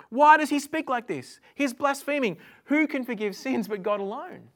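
indignant scribes. Acted. Scribes objecting to Jesus forgiving sins, acted indignation. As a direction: challenge it loudly, like an affronted accuser.

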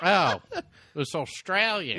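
retold realisation. Retold realisation about the accent.

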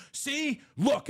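put-on high kid voice pestering dad; squeaky little kid demanding attention; mock child saying see, look; imitating kids. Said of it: "they would take, like, a piece of paper or whatever and go".

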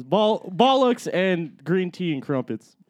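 slow put-on British; badly faked British accent. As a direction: do a shaky attempt at British. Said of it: "talk in a British accent".

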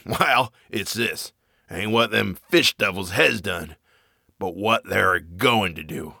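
lightly voiced old drunk, hushed and ominous; an old man leaning in to tell a secret; old sailor confiding. Zadok confides horror.

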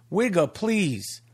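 slow, drawn-out dismissal, stretching each word; drawn-out dismissive. Acted. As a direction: wave it off slowly, like a catchphrase. Catchphrase repeated.

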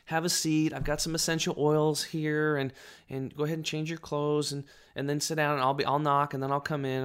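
imitating a sweet, welcoming massage lady; really nice. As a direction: welcome the client in sweetly, put-on niceness. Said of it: "she was, like, really nice".

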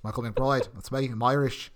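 mock Irish accent, understated; lightly imitating a badly faked Irish accent; terrible Irish accent. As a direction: do a half-hearted bad Irish brogue. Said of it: "this terrible accent".

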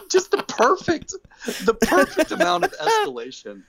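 high, laughing through the words. Real, not acted. Podcaster laughing while praising the escalation, high and bright.

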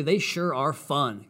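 dry, slow sarcasm; sarcastic. Real, not acted. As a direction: say it flatly, meaning the opposite. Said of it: "Can you sense the sarcasm in my voice?".

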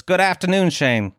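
put-on a first light go at a Leeds accent. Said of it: "Is that even a Leeds accent?".

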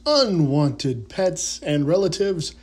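slow, grand showman's opening; grand entrance announcement. Acted. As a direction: announce it like a ringmaster. Mock show opener greeting.

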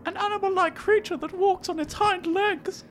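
put-on high teenage girl voice; man doing a woman's voice. Shown as a demonstration. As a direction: speak it like a sixteen-year-old girl. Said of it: "your best sixteen-year-old girl's voice".

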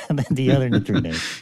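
said through a chuckle; laughing. Real, not acted. Co-host teasing the physicist about hypothetical particles, laughing. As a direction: let a laugh run into the words.

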